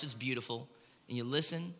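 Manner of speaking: soft aside to the crowd; hushed joke. Real, not acted. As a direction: lean in and whisper-joke it. Joke about home values, hushed.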